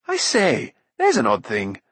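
lightly voiced prince calling out. A narrator's reading. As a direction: call it out with mild interest. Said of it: "called Rune".

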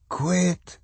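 put-on small, high, groggy child voice; hoarse slurred whisper. A narrator's reading. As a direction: protest weakly like a half-asleep little girl. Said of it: "Swan's voice was a hoarse, slurred whisper".

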